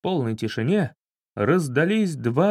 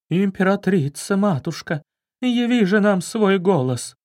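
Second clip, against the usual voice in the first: a touch of hushed grandeur, slightly higher; solemn breathy invocation; 5 semitones higher than usual. Acted. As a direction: invoke the empress with reverent breath. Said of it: "с торжественным придыханием продолжила". (торжественно, с придыханием)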